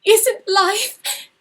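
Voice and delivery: high, loud, broken-off question through tears; stammering, tearful. Acted. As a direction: falter on "Isn't life" and stop. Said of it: "she stammered".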